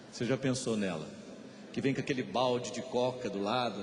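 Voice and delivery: ordinary delivery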